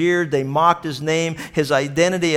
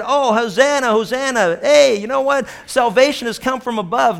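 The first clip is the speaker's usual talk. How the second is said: crowd praising; 9 semitones higher, 5 dB louder than usual. Retold or imitated. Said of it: "many of the same people who said".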